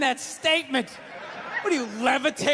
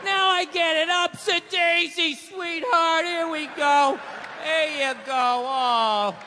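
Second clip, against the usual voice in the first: mock tender; 5 semitones higher, slower than usual. Helping wife up gently.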